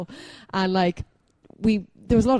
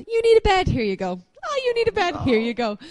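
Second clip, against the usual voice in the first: breezy handout; 11 semitones higher than usual. Retold or imitated.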